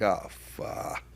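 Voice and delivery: breathy whispered "ah, fuck" under the breath; whispered curse. Retold or imitated. Getting the bad phone call, a whispered curse. Reacting to news of friend's death.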